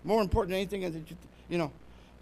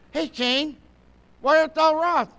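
raised, high challenge; the Lord confronting Cain; 7 semitones higher, 7 dB louder than usual. Acted. The Lord questioning angry Cain, high and challenging. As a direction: call him out with a loud question. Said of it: "And the Lord said in verse six".

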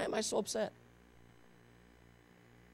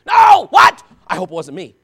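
mock alarmed gasp; 19 dB louder than usual. Mimics a worried gossip.

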